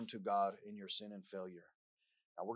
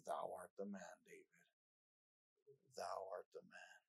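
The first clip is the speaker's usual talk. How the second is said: Nathan's accusation; 4 semitones lower, 9 dB quieter than usual. Acted. Nathan confronting King David.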